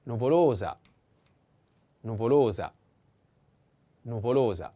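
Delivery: "nuvolosa" with LO lengthened each time; stress on second O. Shown as a demonstration. Teacher models the feminine form, "nuvolosa" stressed on LO. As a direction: lean on LO in every "nuvolosa". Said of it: "The accent is the same".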